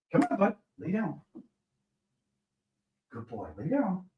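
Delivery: high, gentle commands to a dog; high coaxing pet voice. Real, not acted. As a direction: coax the dog down softly.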